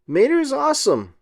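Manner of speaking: high, delighted squeal; excited fan cheer; thrilled fan. Acted. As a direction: gush like a starstruck fan. Fans cheering Mater.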